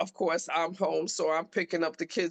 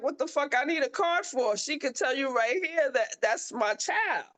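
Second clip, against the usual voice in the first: indignant retort; 6 semitones higher than usual. Retold or imitated. Mom arguing with school aide.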